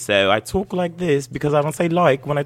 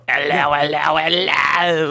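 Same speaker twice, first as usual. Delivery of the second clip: hammed-up old British accent, a touch higher; 3 semitones higher, slower than usual. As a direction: greet everyone like a posh old British host. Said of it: "like, an old British".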